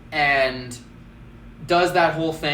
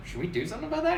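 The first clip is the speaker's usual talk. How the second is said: quoted question; 11 semitones higher, 5 dB quieter, much faster than usual. Retold or imitated. Quoting herself to coworker.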